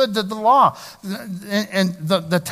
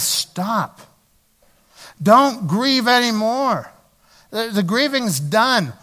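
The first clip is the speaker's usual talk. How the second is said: higher, louder, slow command to stop; commanding Nehemiah; 5 semitones higher, 3 dB louder, slower than usual. Acted. Nehemiah calls out to the weeping people, commanding and slow. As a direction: halt the mourners with authority.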